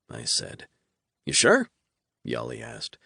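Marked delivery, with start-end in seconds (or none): 1.2-1.7 pitched high, teasing question; mocking demon. A narrator's reading. Demon on the phone doubting the hero, high mocking. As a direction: needle him with a sing-song doubt.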